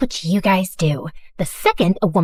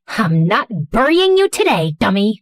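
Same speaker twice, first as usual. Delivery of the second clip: snapping. Acted.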